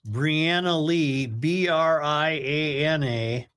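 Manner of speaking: dictating. Real, not acted. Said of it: "Read me the sentence".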